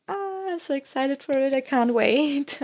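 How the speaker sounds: squealing with excitement; bursting with excitement; excited. Real, not acted. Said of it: "That's how excited I am".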